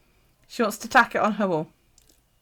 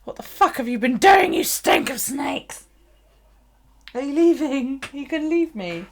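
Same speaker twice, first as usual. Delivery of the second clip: louder, higher put-on dog voice; voicing the dog; 6 semitones higher, 5 dB louder than usual. Owner voicing her dog's complaint about the snake smell, mock whiny. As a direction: play the affronted dog, half whining. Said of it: "down there going".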